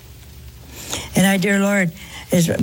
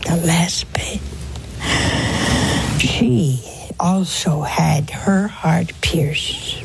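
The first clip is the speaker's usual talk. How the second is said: whispered. Acted. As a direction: whisper it, almost grieving. Preacher whispers about Mary's pain.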